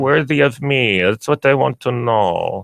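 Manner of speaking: a hint of a German accent, haughty dog voice; the Yorkie asks in a faintly German voice; mock German accent. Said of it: "Wait, that was a German accent".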